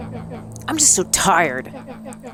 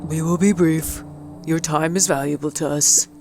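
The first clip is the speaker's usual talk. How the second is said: cheery clipboard canvasser; 2 semitones lower than usual. Acted. Clipboard people greeting Mister Van Horn politely. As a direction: sell them a friendly chat. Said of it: "that guy that's always happy".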